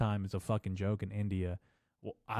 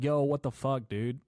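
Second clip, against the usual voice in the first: retold loud, higher exclamation; lightly acted confrontation, pitched up; mock indignant outburst; 5 semitones higher, 5 dB louder than usual. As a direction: call him out in mock disbelief, louder. Retold confronting of the clicking guy.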